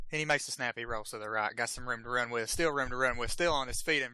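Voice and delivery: football commentator following the play as it unfolds; live play-by-play. Real, not acted. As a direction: call the snap and pass live.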